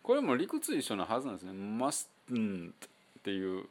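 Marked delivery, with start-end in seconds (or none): 1.5-2.7 "mustn't" with no T before the N; the relaxed "mustn't"; silent T mustn't. Shown as a demonstration. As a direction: drop the T in "mustn't". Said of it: "Tをやめてしまってmustn'tになっとる".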